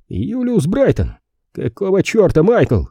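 stunned disbelief; shocked. Acted. Painter shocked on phone. (потрясённо)

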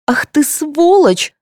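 high, slow, spat-out fury; furious yell. Acted. Tatyana yelling at the rival mother, enraged. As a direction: scream the insult in her face. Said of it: "заорала Татьяна".

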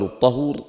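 الطهور with a short "a" after ط, "tahur"; fatha on ط. Shown as a demonstration. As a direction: say الطهور as "at-tahur", not "tuhur". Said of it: "بفتح الطاء". (الطهور بفتح الطاء)

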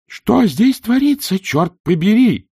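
high, loud, slow shout. A narrator's reading. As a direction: yell it over the storm wind. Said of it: "прокричал он".

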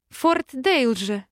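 slow, giggly name; giggling. Acted. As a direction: giggle the name out, tipsy with joy. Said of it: "хихикнула".

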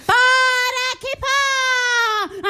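slow, high, tearful cry; the president howling in despair; wailing cry. Acted. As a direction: wail it out long and drawn.

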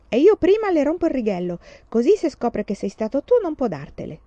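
put-on boy eager for mischief; eager boyish plotting. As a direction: egg on the prank with glee. Boys plotting a prank.

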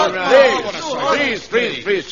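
loud, high pleading over the noise. Acted. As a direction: call over the chatter, begging. Calming a rowdy platoon.

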